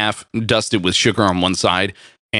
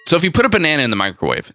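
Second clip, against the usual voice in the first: still giggly; 6 semitones higher, much faster than usual. Real, not acted. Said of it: "no, seriously".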